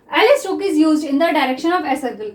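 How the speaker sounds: English rule read very slowly word by word; teacher dictating the rule to students; slow dictation. Shown as a demonstration. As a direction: spell out the rule as you write it. Reading rule again slowly.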